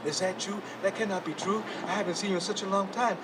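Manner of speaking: soft dreamy murmur; dreamy hush. Acted. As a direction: speak as if meeting someone long lost in a dream.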